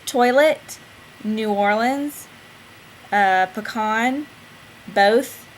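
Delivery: each word read aloud in her own Southern way; dialect word list. Shown as a demonstration. Reading her dialect vlog word list aloud, carefully. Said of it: "back to my word list".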